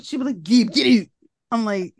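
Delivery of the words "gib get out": louder, higher mimicked Canadian accent; mock Canadian accent. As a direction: imitate an actress's slip into Canadian. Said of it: "Why are we Canadian?".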